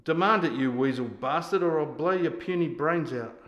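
loud, insulting military threat; angry threat. Acted. Sergeant threatens to shoot the soldier, angrily. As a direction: drive the threat home at a subordinate.

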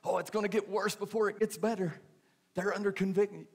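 sing-song judgmental church lady; mocking churchy gossip. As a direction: imitate the know-it-all church folks clucking. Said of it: "You ever say that?".

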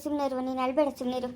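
low, softening reassurance; gentle consoling. Acted. Promising a crying cousin to visit, gently consoling.

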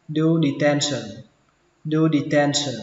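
"detention" with "ten" said with an unaspirated t; "detention", middle syllable like Vietnamese "ten". Shown as a demonstration. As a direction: say "do detention" with a tight t, no puff of air. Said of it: "đọc chữ này thành chữ ten".

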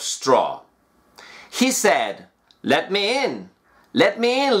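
slow, clear storybook reading; measured fairy-tale narration; story reading. Acted. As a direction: read it like a bedtime story for learners.

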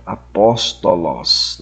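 "Apóstolos" slowly, stress on the PÓS; stress on antepenult. Shown as a demonstration. Teacher showing where the acute accent falls, stress on antepenult. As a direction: draw out "Apóstolos", leaning on its second syllable. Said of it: "leva o acento agudo na antepenúltima sílaba".

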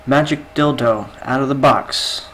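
slow, drawn-out magic command; incantation. Retold or imitated. Shopkeeper shows the customer the trick, commanding incantation. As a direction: call it up like a showman's spell.

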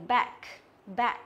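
"back" with a spread, open æ; correct E bẹt back. Shown as a demonstration. Teacher corrects the mistake for students, wide-open "back". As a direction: say "back" with the mouth widened on the vowel. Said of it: "mà là gì?".

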